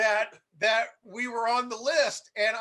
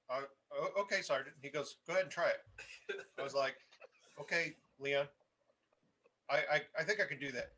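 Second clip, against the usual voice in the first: softer and lower, hesitant; sheepish; 5 semitones lower, 5 dB quieter, faster than usual. Retold or imitated. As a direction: shrink back, unsure of yourself. Nervous junior using first name.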